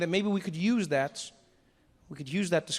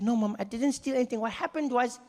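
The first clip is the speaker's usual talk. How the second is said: higher, mock-serious lecturing child; a cheeky kid arguing like a lawyer; smart-mouthed kid; 7 semitones higher than usual. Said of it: "I said".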